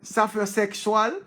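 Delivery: slow, careful Sapiosexual, syllable by syllable; sounding out. Shown as a demonstration. Reading a new word aloud, slowly sounding it out. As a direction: spell Sapiosexual out with the voice, rising. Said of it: "read the name what?".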